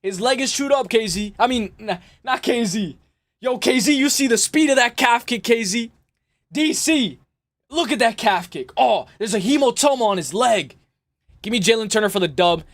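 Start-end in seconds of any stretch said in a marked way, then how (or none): 0.0-10.8 lightly done, excited Rogan call about the calf kick; a hint of a hyped commentator marvelling at the kick; Joe Rogan impression. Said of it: "I can see Joe Rogan".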